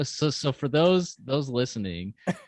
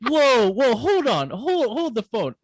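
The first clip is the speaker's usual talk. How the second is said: surprised; 7 semitones higher than usual. Real, not acted. Jumps in to defend Dan.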